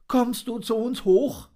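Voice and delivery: high, gentle cooing invitation; cooing dove. Acted. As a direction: coo it like a kind mother dove. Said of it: "gurrte Frau Tauben".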